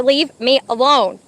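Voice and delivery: slow, loud, word-by-word plea; fed-up dog. Retold or imitated. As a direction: voice a dog who has had enough. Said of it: "he's literally just telling her".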